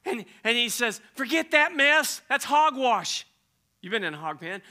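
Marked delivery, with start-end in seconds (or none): 1.2-3.2 loud, higher, brushing it off; father waving away the apology; forceful dismissal. Acted. Father to returning son, loud scoffing dismissal.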